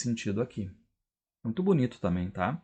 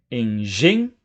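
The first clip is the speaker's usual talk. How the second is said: "Engenho" split up, GEN punched louder; stressed syllable shown; 5 dB louder, slower than usual. Shown as a demonstration. Teacher showing the tonic syllable, stress on GEN in "Engenho". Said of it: "Qual é a sílaba tônica de engenho?".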